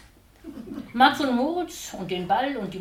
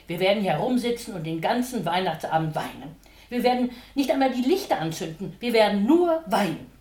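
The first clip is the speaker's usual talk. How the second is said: rising lament; 6 dB louder than usual. Acted. Mama's lament growing.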